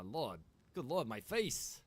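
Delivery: ordinary delivery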